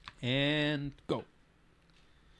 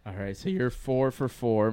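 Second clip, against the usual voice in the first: voice cracking; 2 semitones lower than usual. Real, not acted. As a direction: voice breaks mid-sentence. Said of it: "My voice just cracked there".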